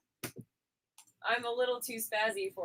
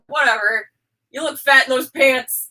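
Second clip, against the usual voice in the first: imitating blunt Oak; 3 semitones higher, 13 dB louder, slower than usual. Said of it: "who's like".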